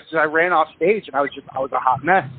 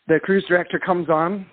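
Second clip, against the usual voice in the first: normal talking voice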